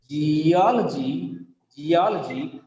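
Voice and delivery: slow "Geology", ji-O-lo-jy with O stressed; stress third from last. Shown as a demonstration. Teacher showing the rule, "Geology" stressed on O. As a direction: draw out O in "Geology". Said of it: "Third from last is A".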